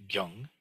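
gyung said slowly with a clear u vowel, gyoong. Shown as a demonstration. Teacher models the Korean sound slowly, gyung. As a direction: say gyung, not gyong. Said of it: "which is pronounced as".

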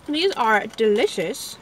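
talking with her mouth full; slow words around a mouthful of sweets. Real, not acted. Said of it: "I'm not gonna talk with my mouth full".

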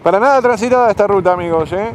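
sarcasmo alto y rápido entre risas; irónico entre risas. Real, not acted. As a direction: burlarse de su propia mala suerte. Se ríe del camión delante. (ironía riéndose)

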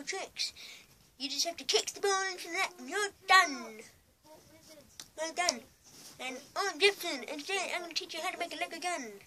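high-pitched made-up character presenting a tutorial; Jefferson. Acted. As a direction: pitch it up as an invented tutorial host. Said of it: "and he speaks like this".

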